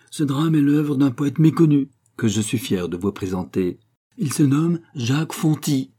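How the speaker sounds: annonce ferme et plus forte; s'adresser à la salle avec assurance; voix claire et ferme. Acted. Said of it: "d'une voix claire et ferme". (Armel annonce au public, voix claire et ferme)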